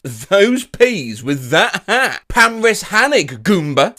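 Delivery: "Those peas with that hat" drawn out slowly; slow reading. Shown as a demonstration. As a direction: say each word slowly. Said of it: "reads the caption twice".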